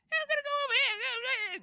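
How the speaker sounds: comical high-pitched goblin squeal, very loud; Nickit the Goblin Rogue. Shown as a demonstration. Showing the voice of a former goblin character, comically high-pitched. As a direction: screech it out like a little cartoon goblin. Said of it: "comical, high-pitched voice".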